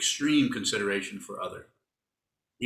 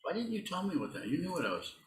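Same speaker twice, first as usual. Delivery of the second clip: mock accusing; 3 semitones higher than usual. Teasing helper who supplied the word.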